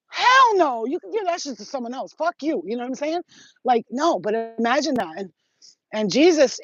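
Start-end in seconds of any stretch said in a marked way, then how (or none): 0.1-2.6 outburst refusal. Pretend. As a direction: refuse the cross in disbelief. Refusing the cross, imagined.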